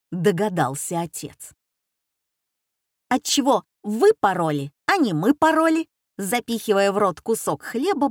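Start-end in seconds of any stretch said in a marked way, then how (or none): none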